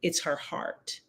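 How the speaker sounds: barely voiced, hushed breath; whispered. Daughter tells father on speakerphone, whispering. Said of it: "And Naira said".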